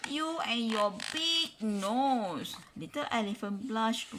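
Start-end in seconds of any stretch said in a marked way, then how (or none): 0.1-2.6 whispered complaint. A narrator's reading. Lion cub complains.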